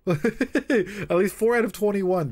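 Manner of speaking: high, slow words through a laugh; laughing while talking. Real, not acted. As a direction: gush about it through a laugh. Excited gushing about the novel.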